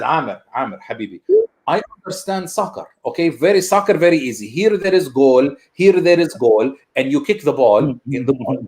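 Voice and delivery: lightly voiced Arab dad, patient and sure of himself; dad explaining soccer to his son in a light Arab accent; dad's Arab accent. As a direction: explain soccer like a proud immigrant father. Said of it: "he would say to me".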